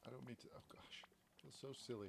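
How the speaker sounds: put-on half-whispered, teary apology to a long-lost friend's child; tearful. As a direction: choke up a little, embarrassed to be crying. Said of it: "I don't know why I'm crying".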